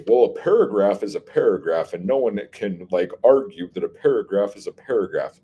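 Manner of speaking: smug, dismissive mock voice; mocking know-it-all. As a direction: sneer it like a pedantic critic. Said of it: "some people are gonna say".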